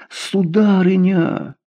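slow, high, drawn-out plea; a lightly voiced suitor pleading; pleading murmur. A narrator's reading. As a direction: beg her, lost and confused. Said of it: "с мольбою пробормотал растерявшийся Гажье".

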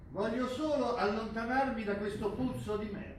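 a loud, disgusted burst of anger; angry outburst. Acted. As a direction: snap it at him, fed up and furious.

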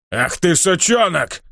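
slow, seething orc snarl; the tricked orc curses the herald, slow and seething; outraged curse. Acted. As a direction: drag out the insult through your teeth.

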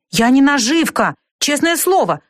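put-on high-pitched boyish protest; exclaiming. A narrator's reading. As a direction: protest your innocence, pitch jumping up. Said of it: "воскликнул Николас". (горячо восклицает, высоким голосом)

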